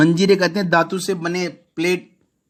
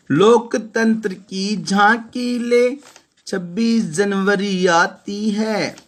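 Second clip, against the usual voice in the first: poem recitation; 3 semitones higher, slower than usual. Acted. Teacher reciting a poem line to the class, slow and raised. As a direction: read it out slowly as poetry.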